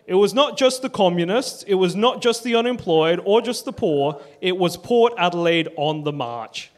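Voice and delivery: an attempted London accent. Quoting Wally Bourne, migrant from London, in attempted London accent. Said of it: "I'll try a London accent".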